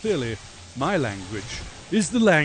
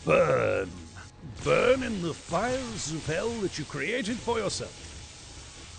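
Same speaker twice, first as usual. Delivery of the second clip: slow, drawn-out mock damnation; hammed-up doom, slowly; mock cursing; slower than usual. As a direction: draw out each word like a playful curse. Mock curse on Bertha in play.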